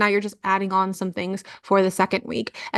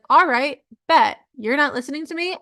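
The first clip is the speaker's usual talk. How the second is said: higher, punchy mock challenge; ignored body talking back; 5 semitones higher than usual. Body answers the person ignoring it, mock defiant. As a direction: talk back as the slighted body. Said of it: "it's gonna be like".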